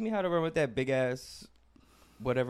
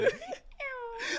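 donkey hee haw. Pretend. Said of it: "that's my donkey impression".

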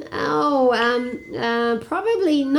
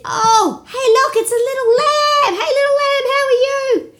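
put-on high, bright-eyed kid greeting; excited greeting; 11 semitones higher, 5 dB louder than usual. Children excitedly greet a little lamb they meet.

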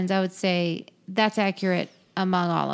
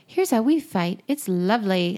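upbeat game show host voice; cheesy, bright TV presenter delivery. Pretend.

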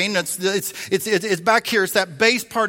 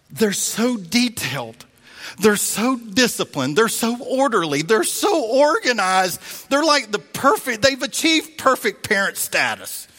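mock awe; 5 semitones higher, slower than usual. Mocking the perfect parents' traits.

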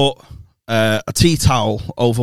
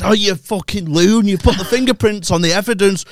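mock angry; 5 semitones higher than usual. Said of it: "act out getting mad".

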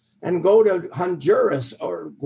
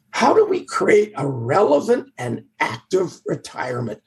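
hoarse, croaky speaking voice. Real, not acted. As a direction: talk through a croaky throat. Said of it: "I just apologize for this croaky voice".

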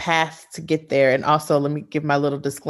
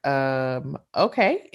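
hesitant surprised okay; much slower than usual. Retold or imitated. Quoting her awkward first reaction.

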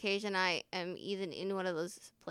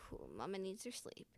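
sleepy self-talk; 13 dB quieter than usual. Retold or imitated. Tired speaker retelling bedtime relief, sleepy self-talk. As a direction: murmur it to yourself, much softer.

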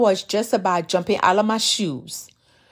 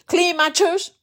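higher, incredulous echo; God quoting her disdain back; a touch of scornful disbelief; mocking her own scoff; 6 semitones higher than usual. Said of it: "and you ask me".

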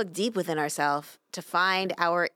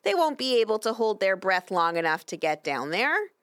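higher, eager-to-chime-in angel voice; piping up; 7 semitones higher, 4 dB louder than usual. A narrator's reading. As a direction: pipe up with a suggestion in a raised pitch. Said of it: "Another angel piped up".

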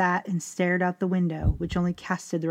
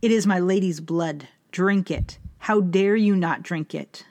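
angry commands, somewhat louder; raging; 3 dB louder than usual. Acted. Charles raging at his son for refusing her blood, louder anger. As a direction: scold him, pressing each order harder. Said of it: "Charles, however, raged".

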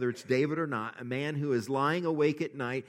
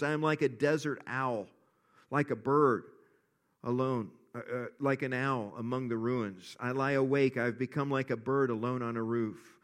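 measured, earnest reading of a psalm; scripture reading. Acted. Pastor reads the psalm to his church, earnest reading.

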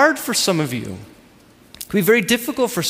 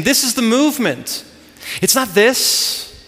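acted strict instructor, slow on the corrections; imitating a demanding teacher; hard on him; 3 semitones higher, much slower than usual. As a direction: drill the move firmly, drawn out. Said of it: "he's hard on him".

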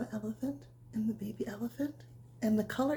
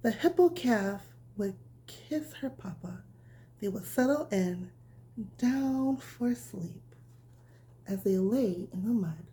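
bedtime story reading; slower than usual. A narrator's reading. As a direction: read it gently like tucking a child in. Reads bedtime story to children.

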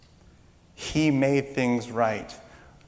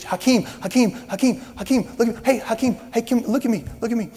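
fans screaming; 9 semitones higher, faster than usual. Retold or imitated. Fans begging the star to look at them, high shout. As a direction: call out like an eager fan. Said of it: "they're screaming, and they're cheering".

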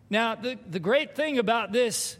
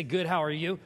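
rushed auto reply; 5 semitones lower than usual. Retold or imitated. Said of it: "half a second to say".

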